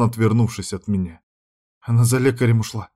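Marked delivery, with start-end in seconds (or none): none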